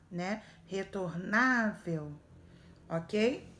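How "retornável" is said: Retornável drawn out slowly, the syllable ná held; reto-NÁ-vel, stretch the ná; stress on NÁ. Shown as a demonstration. Teacher showing which syllable to circle, slow Retornável with ná stressed. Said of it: "eu posso circular o na".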